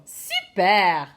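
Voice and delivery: exaggerated French "super"; French accent. Shown as a demonstration. Teacher modelling the word for pupils, French accent. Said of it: "just put your French accent on".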